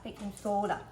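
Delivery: Minnesota accent, echoing the demo. Shown as a demonstration. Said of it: "say it like you're from Minnesota".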